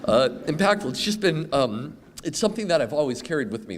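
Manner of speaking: pushing through rising emotion; choked up. Real, not acted. Alumnus speaking of what Tufts means to him, choked up. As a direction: voice climbing, fighting back tears. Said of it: "getting, um, emotional".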